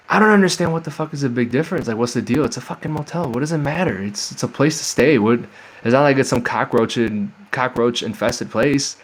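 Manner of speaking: real annoyance at being judged over a motel; exasperated rant. Real, not acted. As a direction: let the indignation spill out, pitch climbing. Fuming over the motel snub.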